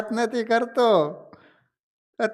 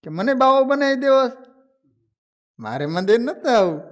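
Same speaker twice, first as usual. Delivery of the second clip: mock angry retelling; 7 semitones higher, 3 dB louder, faster than usual. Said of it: "સંતોની સામે ખીજાણો".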